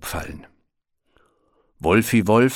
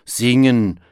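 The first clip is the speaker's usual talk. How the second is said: louder, higher scoffing exclamation; dismissive call; 4 semitones higher, 6 dB louder than usual. A narrator's reading. Bear rejecting the wolves' singing, dismissive call. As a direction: scoff at the very idea. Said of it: "rief Berti".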